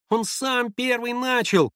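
put-on very high, slow childish cry; irritated child's voice. A narrator's reading. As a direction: protest like an annoyed little boy. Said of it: "закричал мальчик ... раздражённым детским голоском". (раздражённый детский голосок)

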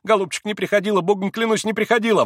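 high, loud pleading maid; frightened swearing. A narrator's reading. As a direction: swear by God in fear. Fenya swears.

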